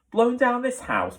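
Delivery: high, surprised question; can't believe it; incredulous. A narrator's reading. Polly incredulous at wolf.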